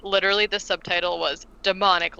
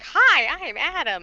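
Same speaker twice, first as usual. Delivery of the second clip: imitating Travolta; 8 semitones higher, 4 dB louder than usual. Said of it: "he's like".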